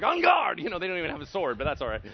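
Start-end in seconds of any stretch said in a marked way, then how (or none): 0.0-0.6 high loud on guard; mock battle cry. Disciples bracing against the demon, a mock loud alarm. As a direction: shout it like drawing a sword. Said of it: "all the disciples are like".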